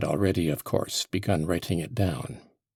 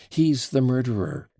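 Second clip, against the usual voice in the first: mock shout; 5 semitones higher, 4 dB louder than usual. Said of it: "shout with all my might".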